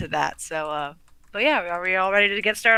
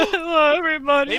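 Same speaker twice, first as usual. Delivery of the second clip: grand hollywood dame; 6 semitones higher, 4 dB louder than usual. Retold or imitated. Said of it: "It's like".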